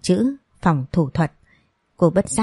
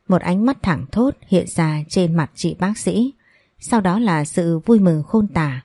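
plain reading voice

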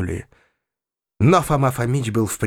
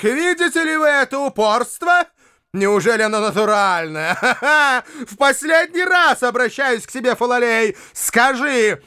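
higher insistent demand; a touch of mock patience; mild domineering urging; Foma's impatient pressing; 8 semitones higher than usual. A narrator's reading. Foma presses the boy.

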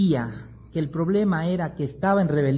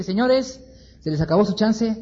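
preaching doom; 6 semitones higher than usual. Acted. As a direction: announce the end like a street preacher. Jonás preaches judgment to Nínive.

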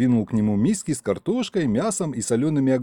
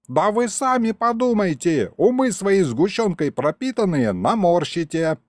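put-on higher, scolding old man; chuckling grandpa; 8 semitones higher than usual. A narrator's reading.

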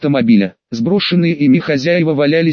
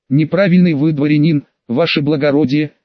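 talking through a big yawn; words stretched by a yawn. Acted. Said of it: "зевая во всю пасть".

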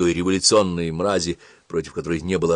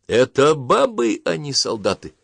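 enraged; 6 semitones higher, 4 dB louder than usual. A narrator's reading. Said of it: "разъярился ротмистр".

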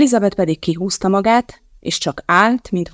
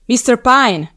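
loud, high call of his name; storming in; 6 semitones higher, 5 dB louder, slower than usual. Acted. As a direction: burst in calling him out. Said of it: "viharzott be Elizabeth".

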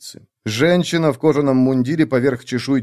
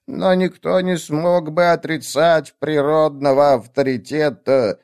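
put-on old witch voice; 4 semitones higher than usual. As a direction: weigh each word like a nervous old witch. Witch character tells story.

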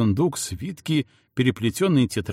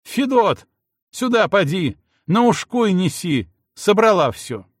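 зов слуги; 8 semitones higher, 4 dB louder than usual. Acted. Зовёт слугу через дверь.

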